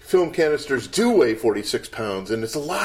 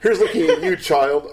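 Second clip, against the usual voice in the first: Bogart impression; 3 semitones higher, 4 dB louder than usual. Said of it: "Humphrey Bogart".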